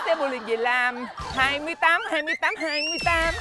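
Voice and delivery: high lô tô caller chant; bingo caller. Pretend. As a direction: call it like a lô tô show. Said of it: "Kêu lô tô".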